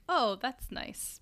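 slow, soft polite nod. Retold or imitated. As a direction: say it slowly and politely. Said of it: "I'm like".

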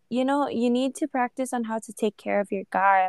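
whispered aside; mocking whisper. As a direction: hush it like a secret rule. Quoting others' expectations.

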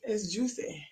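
"Juicy" with a long oo and s sound; mispronouncing Jussie. Real, not acted. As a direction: say "Juicy" like the word juicy. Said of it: "will not call him Jussie".

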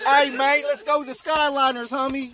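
goofy West Coast impression; West Coast accent. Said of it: "West Coast niggas is like".

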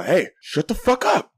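high, slowed mock call; retold window yell. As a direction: imitate hollering down to the street. Repeats his yell from the window.

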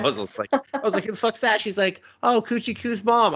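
high, animated recap; excited retelling. Real, not acted. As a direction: tell it all worked up.

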